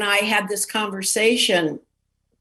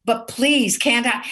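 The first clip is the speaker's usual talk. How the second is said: higher-pitched little plea; retold pleading; 4 semitones higher than usual. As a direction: beg the boss, re-enacted. Waitress begs the bartender.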